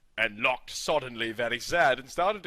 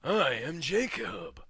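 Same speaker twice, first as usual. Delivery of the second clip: slow, drawn-out proclamation that swells into a shout; lightly voiced villain yelling his title; yelling werewolf king; slower than usual. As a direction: announce yourself as a mad king. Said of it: "he yelled".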